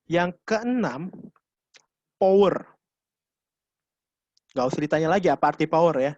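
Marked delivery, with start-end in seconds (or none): 2.2-2.7 powerful delivery. Shown as a demonstration. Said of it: "memberikan kekuatan pada suara".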